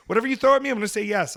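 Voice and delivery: mock fired up. Fired up agreeing to anything.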